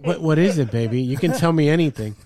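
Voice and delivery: mock tender wife. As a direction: coax him gently, playing the wife.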